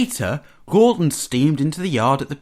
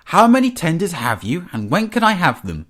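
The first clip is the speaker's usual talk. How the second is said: higher, keen questioning; flustered eagerness; hastily eager; 6 semitones higher than usual. A narrator's reading. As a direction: press eagerly for the prize. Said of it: "spluttered Henry hastily".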